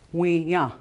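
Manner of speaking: We, ya, with ya accented; stress on second syllable. Shown as a demonstration. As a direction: split We, ya and lean on ya. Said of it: "the second syllable is always accented".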